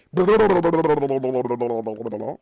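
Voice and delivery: long, low, sinking burble; bubbling noise. Pretend. Player sinks underwater, bubbling noise. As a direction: babble a descending drowning gurgle.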